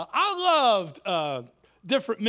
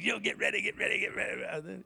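low, softer bishop impression; low preacher's refrain, tossed off; Bishop Jake; 4 semitones lower, 7 dB quieter than usual. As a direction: lightly mimic a preacher's repeated refrain. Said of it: "I was Bishop Jake".

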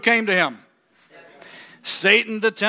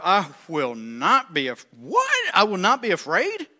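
mock surprise. Preacher to church, mock surprised question. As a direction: feign disbelief at the word.

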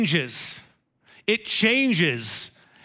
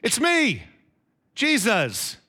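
gentle reveal; 3 semitones higher, slower than usual. Shown as a demonstration. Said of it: "with the intonation".

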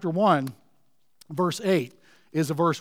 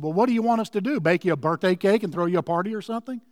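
sarcastic, snarky; 2 semitones higher, faster than usual. Retold or imitated. Friend answering the woman's birthday remark, a bit sarcastic and snarky. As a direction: imitate a sarcastic friend brushing her off. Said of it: "a bit sarcastic and snarky with her".

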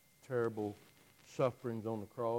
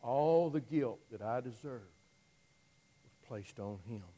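much softer, lower, reverent sermon hush; hushed reverence; 3 semitones lower, 6 dB quieter than usual. Real, not acted. Preacher telling of sins laid on the Son, hushed. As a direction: let it drop to a near-hush.

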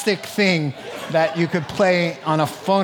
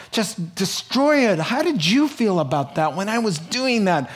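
higher earnest pleading; pleading to Jesus; 5 semitones higher than usual. Retold or imitated. Diane in heaven asking Jesus, higher earnest pleading. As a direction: ask Jesus with eager sincerity. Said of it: "she'll say".

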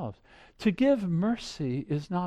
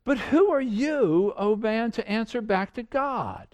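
rebuke; 3 semitones higher than usual. Acted. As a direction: throw the question down like a rebuke. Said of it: "it's kind of a rebuke".

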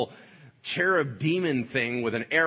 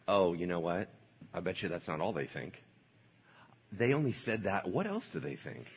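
sly tempter; 5 semitones lower, 5 dB quieter than usual. Acted. Satan planting doubt.

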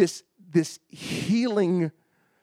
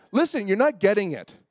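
higher, impatient retort; mean Bob Jones; 6 semitones higher, 4 dB louder than usual. Retold or imitated. Prophet correcting stubborn husband, mock stern. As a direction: imitate a prophet losing patience. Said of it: "turned to mean Bob Jones".

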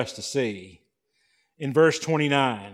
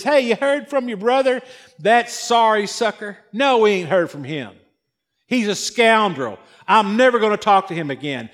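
scornful gossip; 3 semitones higher, 4 dB louder than usual. Acted. Preacher acts out the townsfolk gossip.

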